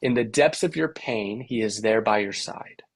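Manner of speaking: "in the DEPTHS of your PAIN" in da-da-DUM lilt; three-beat rhythm. Shown as a demonstration. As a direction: land the beat on DEPTHS, PAIN, THERE, SIDE. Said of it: "Or you could say something like".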